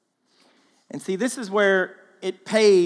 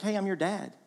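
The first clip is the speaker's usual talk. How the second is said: fatherly call; 5 semitones higher than usual. Retold or imitated. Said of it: "He's like".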